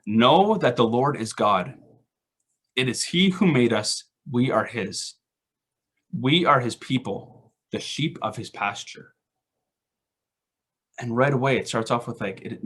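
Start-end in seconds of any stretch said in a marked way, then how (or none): 0.1-9.1 slow, measured reading of the psalm; scripture reading. Acted. Pastor reading Psalm one hundred to the congregation, slow and reverent. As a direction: read the verse slowly and reverently.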